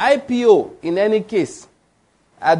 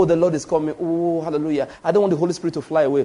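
mock trembling reverence; 2 semitones lower, faster than usual. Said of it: "Fear does not mean to tremble".

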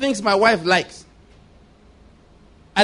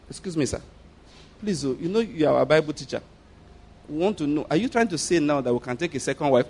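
hushed puzzled question; 5 semitones lower, 8 dB quieter than usual. Retold or imitated. Voicing puzzled members questioning him.

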